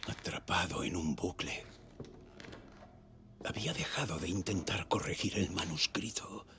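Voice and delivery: hushed, brooding voice-over; hushed confession. Acted. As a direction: confess it under your breath, half whispered.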